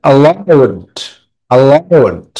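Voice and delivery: allowed with a long, falling second syllable; allowed drawn out, stressed after the first syllable. Shown as a demonstration. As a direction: put the weight on the -owed of allowed. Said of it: "আউট এর উপরে".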